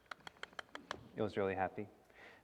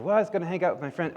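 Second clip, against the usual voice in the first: put-on kid voice; 8 semitones higher, 5 dB louder, faster than usual. A narrator's reading. Sasha voiced in story.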